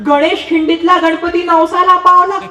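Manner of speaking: put-on excited boy calling from afar. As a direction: call out across the distance. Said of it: "ओरडला".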